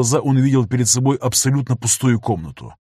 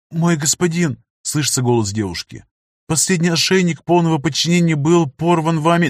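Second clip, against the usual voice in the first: put-on timid slave girl; 6 semitones higher than usual. Slave girl answers master.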